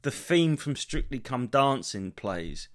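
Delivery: slow, deadpan caption read "The theme from Strictly Come Dancing plays"; subtitle read out. Retold or imitated. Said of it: "It said".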